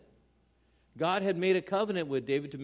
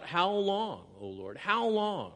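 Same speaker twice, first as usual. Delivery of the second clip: a desperate lament, raised voice; crying out; 4 semitones higher, slower than usual. Acted. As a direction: cry out to God in anguish. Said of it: "he cries out".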